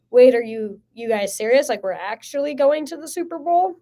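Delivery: mildly incredulous, rising in pitch at the end. Retold or imitated. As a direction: retell a disbelieving question. Disbelief at Super Bowl news.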